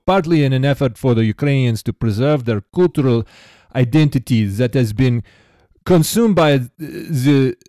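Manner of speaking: put-on reading an email in a light Russian accent; a hint of a Russian accent, read out evenly; a lightly put-on Russian accent, read with care. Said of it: "You're just going all in on this accent".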